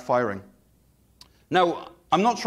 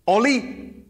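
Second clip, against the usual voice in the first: sharp higher call, louder; mock shout; 6 semitones higher, 4 dB louder than usual. Shown as a demonstration. Pastor shouting at his dog Ollie, mock angry. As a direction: bark the dog's name like a telling-off. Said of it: "Imagine I'm shouting".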